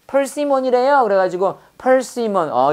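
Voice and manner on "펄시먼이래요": answering voice. Retold or imitated. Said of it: "그랬더니".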